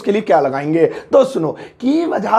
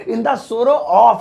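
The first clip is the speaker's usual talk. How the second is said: slow repeat; much slower than usual. Shown as a demonstration. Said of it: "English phrase का use कीजिए".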